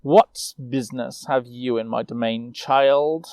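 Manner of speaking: lightly voiced cold queen, commanding; a hint of a haughty ruler looking down; imperious queen. Ice queen addressing the young knight, lightly imperious. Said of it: "Her imperious tone was clear as she spoke".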